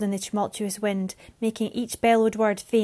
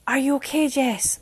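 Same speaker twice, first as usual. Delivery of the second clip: called; 5 semitones higher, 4 dB louder than usual. Acted. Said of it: "Mariana called".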